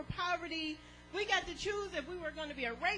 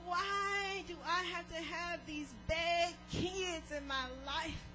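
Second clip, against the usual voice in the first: preacher voicing a church member whining to the Lord; lament to God. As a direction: act out a complaining believer praying. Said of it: "sitting there thinking".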